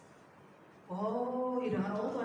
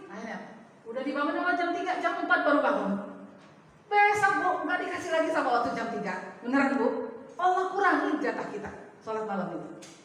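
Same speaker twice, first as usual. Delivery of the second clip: usual speaking voice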